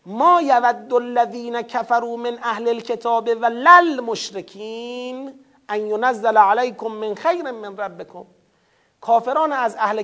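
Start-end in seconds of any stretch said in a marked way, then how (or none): 0.1-8.2 measured Arabic recitation of the verse; chanted scripture reading; Quran recitation. Acted.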